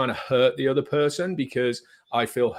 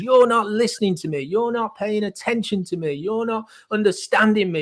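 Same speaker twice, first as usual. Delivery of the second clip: higher, louder whiny protest; angry child voice; 10 semitones higher, 5 dB louder than usual. Acted. The angry child part protesting at the listener, higher and louder. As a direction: act out a hurt child demanding to be heard. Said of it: "your angry child kicks in and goes".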